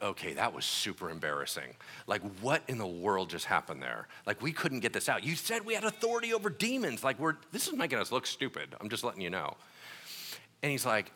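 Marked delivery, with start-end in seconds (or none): 0.0-9.6 lower, softer sheepish complaint; embarrassed grumble. Acted. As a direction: complain under your breath. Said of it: "the disciples were like".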